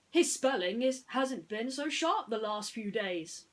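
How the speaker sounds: hint of a worried toy pig; lightly voiced Ham. Ham asks friends about Mister Spell, lightly voiced.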